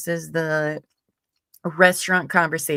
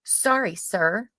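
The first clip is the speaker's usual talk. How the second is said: higher-pitched "oh, sorry", settling on "sir"; lightly acted mom excusing herself; mom's apology; 4 semitones higher, slower than usual. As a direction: toss out a high, quick-reaction apology. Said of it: "my mom's like".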